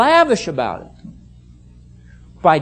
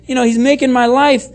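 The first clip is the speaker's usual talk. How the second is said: higher-pitched, mildly exasperated protest; aggrieved spouse's complaint; 4 semitones higher, 3 dB louder than usual. Acted. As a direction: complain like a fed-up husband or wife.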